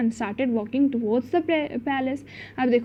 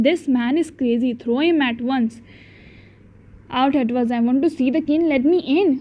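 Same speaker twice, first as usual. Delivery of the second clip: lightly raised, slow reading of the shouting; slow storybook reading; much slower than usual. Acted. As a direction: read the palace quarrel slowly for the class. Reads palace scene slowly.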